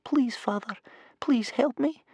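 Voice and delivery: put-on very high little boy's begging; tearful child's inward prayer, high and small; repeated desperate plea. A narrator's reading. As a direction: plead over and over, in short separate phrases. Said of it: "inside his head he repeated over and over".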